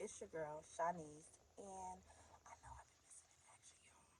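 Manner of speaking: soft, very quiet, hushed whisper. A host welcomes viewers back after being missing in action: whispering. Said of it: "I don't know why I'm whispering".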